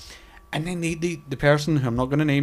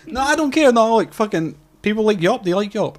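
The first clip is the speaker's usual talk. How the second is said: laughing protest; 7 semitones higher, 3 dB louder than usual. Real, not acted. Laughing, insisting he doesn't care.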